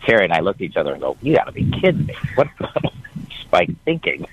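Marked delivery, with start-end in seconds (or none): 1.2-4.3 high, incredulous disbelief; mock outrage at the boss's choice. Parents disbelieving the hire.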